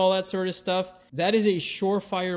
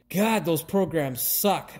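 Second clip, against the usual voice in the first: exasperated; slower than usual. Retold or imitated. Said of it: "I have and will continue to say".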